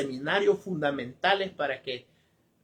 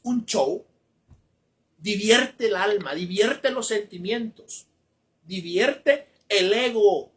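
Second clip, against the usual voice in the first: preaching emphasis; 4 semitones higher, 4 dB louder, slower than usual. Acted. Preacher denouncing shows.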